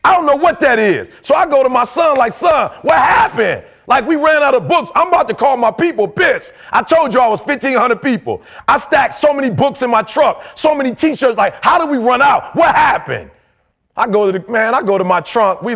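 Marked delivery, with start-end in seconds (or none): 2.3-13.3 raised, heated voice at his son; confronting son. Retold or imitated. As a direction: demand answers, fired up. Confronting his son about books.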